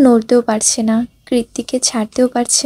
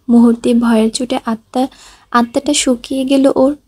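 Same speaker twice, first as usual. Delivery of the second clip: ordinary delivery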